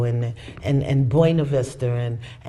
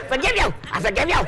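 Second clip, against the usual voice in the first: grudging forgiveness; 12 semitones higher, much faster than usual. Retold or imitated. Mock forced forgiving.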